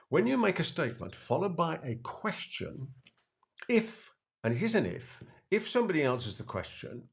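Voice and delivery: each phrase spaced out with pauses. Shown as a demonstration. Teaching the key idea, slow and deliberate. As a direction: spell it out slowly for the audience. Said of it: "Let me say it again more slowly".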